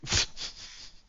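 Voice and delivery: soft puff of air, imitating dozing off; falling-asleep puff. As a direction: blow out air like someone suddenly conking out. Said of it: "he just falls asleep".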